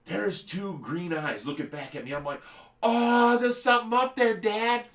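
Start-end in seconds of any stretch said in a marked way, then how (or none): 2.8-4.8 high, loud mock kid voice; excited little kid. Little kid telling Dad about the tree, mock excitement. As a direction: call up high like an amazed child.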